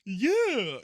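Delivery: sheepish high yeah. Retold or imitated. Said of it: "And I'm like".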